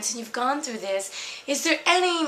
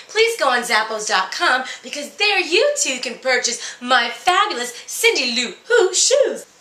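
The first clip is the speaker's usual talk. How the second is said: a lightly voiced, brassy fairy-tale princess dishing gossip; sassy Cinderella; 2 semitones higher, 4 dB louder than usual. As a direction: spill the tea like a jaded, bored princess. Cinderella gives advice, plugs shoes.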